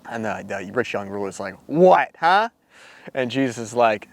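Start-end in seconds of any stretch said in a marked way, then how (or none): 1.7-2.5 startled. Retold or imitated. Ruler startled by Jesus' demand.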